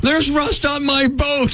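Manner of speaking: drawn-out snooty rich-guy whine; snobby rich guy. Pretend. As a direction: play an eighties movie snob. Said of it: "eighties movie snobby rich guy voice".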